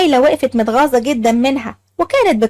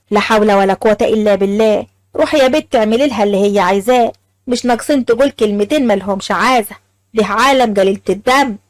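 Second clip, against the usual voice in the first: put-on old mother; 5 semitones lower than usual. Old mother resigned advice.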